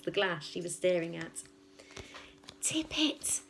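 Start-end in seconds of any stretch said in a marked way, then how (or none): 2.6-3.4 unvoiced, soft whisper. Matilda whispers at the glass, willing it to tip. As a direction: breathe it out as a secret command. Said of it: "Matilda whispered".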